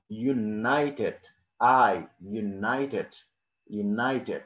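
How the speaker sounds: "united" slowly with a stretched eye vowel; slow classroom model of "united", stressing the eye sound; long I sound. Shown as a demonstration. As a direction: draw out the "nite" in "united". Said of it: "you will pronounce it like I".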